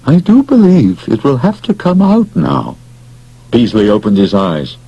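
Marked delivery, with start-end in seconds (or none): 0.1-2.8 quiet and firm. Acted. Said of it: "in a quiet, firm voice".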